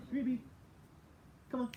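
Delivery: high call to the dog. Real, not acted. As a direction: call the dog from across the room. Calling the dog mid-lesson.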